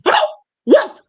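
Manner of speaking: very high, mock-innocent squeal of surprise; hammed-up baby god feigning shock, laughing; innocent baby Hermes. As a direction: play dumb, waking up in a high, wide-eyed voice. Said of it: "he is like opening his eyes".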